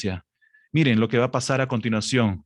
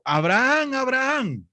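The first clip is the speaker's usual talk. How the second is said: much higher urgent call from above; high called-out name, held and urgent; 13 semitones higher than usual. Acted. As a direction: cry the name out like an angel from heaven. Angel calls from heaven.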